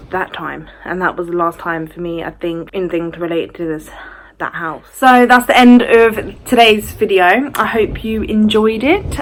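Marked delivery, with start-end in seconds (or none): 4.9-9.2 slow, drawn-out outro, pitched up; slow presenter-style wrap-up; vlog sign-off. Real, not acted. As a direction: stretch out the sign-off for the viewers. Signs off to viewers.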